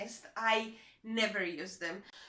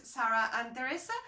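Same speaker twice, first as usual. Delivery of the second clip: the names Sarah and Teresa said with an English accent and English r. Real, not acted. Vlogger names her nieces in an English accent. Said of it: "saying their names with an English accent".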